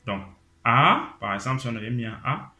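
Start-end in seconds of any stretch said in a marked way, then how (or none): 0.6-1.1 "A" gliding up, loud; rising A. Shown as a demonstration. Teacher putting the rising tone on A, loud. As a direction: slide "A" upward. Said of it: "le ton montant".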